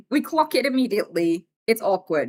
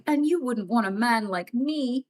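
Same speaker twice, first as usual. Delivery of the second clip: creepy fishing man. Retold or imitated. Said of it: "They always say it like".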